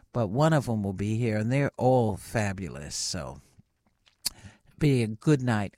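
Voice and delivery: talking while chewing gum. Real, not acted. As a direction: chew gum as you speak. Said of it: "I put some gum in my mouth, and I'm just chewing".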